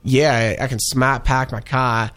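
a light Boston accent, casually imitated; mock Boston drawl on the car line. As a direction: toss off a loose Boston accent. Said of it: "talking in, like, Boston accents".

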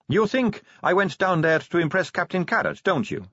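high-pitched knowing challenge; Sally, teasing vampire. Acted. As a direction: lightly needle her in a high voice.

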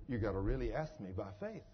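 very low, hushed instruction; God's voice. Retold or imitated. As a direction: instruct softly and low as the Lord. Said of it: "the Lord speaks to Isaiah in an audible voice".

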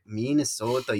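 mock Minnesotan pronunciation; caricatured Minnesotan accent. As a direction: say "Minnesota" as outsiders imitate it. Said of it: "They'd be like".

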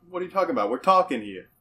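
quick put-on New York accent; hammed-up New York tough talk; mock New Yorker. Player teasing about angering Joe Pesci, mock New York accent. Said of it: "let's just go ahead and, uh, anger him".

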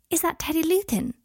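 high, gushing witch. A narrator's reading. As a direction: coo it like a fussing witch. Witch asks excitedly.

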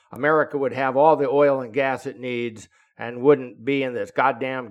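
a retold, fired-up political gripe; angry rant. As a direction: vent hatred of the other side. Rick ranting about Biden.

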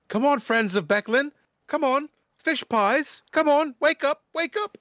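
high, loud rousing call; excited wake-up caller. Acted. Young man rousing sleepers down the hallway, high excited shouting.

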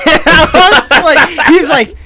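high, loud laughter breaking through the words; can't get the words out for laughing; laughing hard. Real, not acted. Friend retelling the coworker story, laughing hard.

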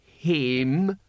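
a tensed, reluctant last word; forced out. A narrator's reading. Cohen finishing his polite request, forced out. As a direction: push the word out through tight lips. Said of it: "lips tensed around the word".

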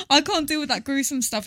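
teary laughing; tearing up. Real, not acted. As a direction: voice wobbling near tears. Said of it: "you're actually tearing up".

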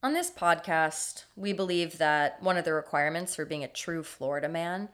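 scripted story narration. A narrator's reading. Reads the scripted story intro.

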